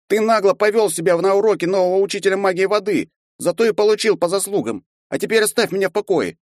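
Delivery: put-on high young voice, steady and reproachful; a small boy scolding someone twice his size; boy's voice, firm. A narrator's reading. Young Archonok telling the half-elf to leave him alone, firm.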